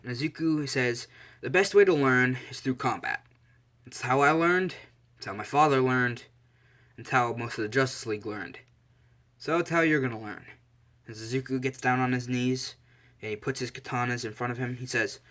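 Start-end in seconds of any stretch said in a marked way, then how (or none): 1.4-10.4 louder, emphatic teaching tone; instructor's declaration. Acted. Bodyguard addresses his new combat class, firm and emphatic. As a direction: lay down the rule, line by line.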